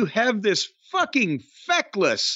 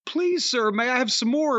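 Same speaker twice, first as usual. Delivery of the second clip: pleading orphan; 2 semitones higher than usual. Retold or imitated. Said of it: "the Oliver Twist of asking".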